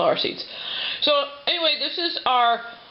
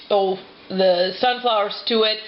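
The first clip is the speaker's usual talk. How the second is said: mouth full. Real, not acted. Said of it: "talk so much with my mouth full".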